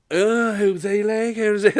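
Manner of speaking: high, loud gasping "who's he"; hammed-up shocked teenage girls; mock outraged girls. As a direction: gasp then squeal it, offended teen lasses. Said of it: "they just went".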